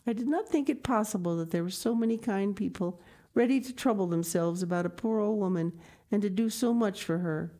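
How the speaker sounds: deeply moved. Acted. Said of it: "deeply moved".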